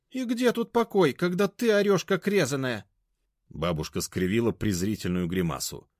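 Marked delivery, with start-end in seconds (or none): 0.1-2.8 high, loud, biting; high-pitched sarcastic comeback; scornful retort. A narrator's reading. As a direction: snap back at her. Grandmother retorting.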